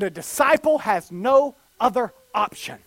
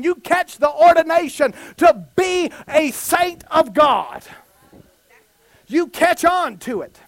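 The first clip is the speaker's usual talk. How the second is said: emphatic, rhythmic preacher build; full-force preaching; 3 semitones higher, 3 dB louder than usual. Real, not acted. Preacher listing what you catch from Jesus, building emphatic preaching. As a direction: hammer each repeated phrase home.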